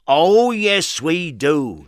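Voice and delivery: eager cry. Acted. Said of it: "he cried".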